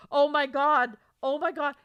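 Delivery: ordinary talk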